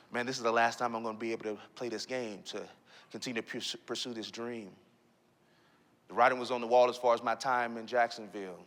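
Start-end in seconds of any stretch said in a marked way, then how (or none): 0.1-4.7 low, hushed, defeated thought; subdued and low, reliving heartbreak; crushed self-talk. Retold or imitated. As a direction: say it softly to yourself, dejected. Injured, thinking his career is over.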